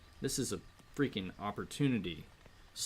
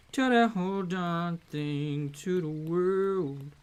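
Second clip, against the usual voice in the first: louder, punchier line; louder take; 7 semitones higher, 6 dB louder than usual. Shown as a demonstration. Streamer repeating the line with more force. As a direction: push it out with more energy. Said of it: "repeated louder".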